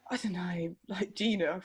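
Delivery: real whisper, trailing off; a whispered unsure aside. Real, not acted. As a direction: breathe it out under your breath. Unsure aside mid-thought.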